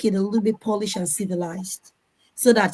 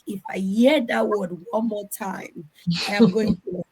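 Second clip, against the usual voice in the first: retold exasperation. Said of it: "And you're like".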